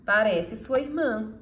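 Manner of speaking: "Parece sua irmã" slow and amazed; surprised exclamation. Shown as a demonstration. Teacher showing surprise with the exclamation mark, slow and amazed. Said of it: "se a intenção é destacar a surpresa".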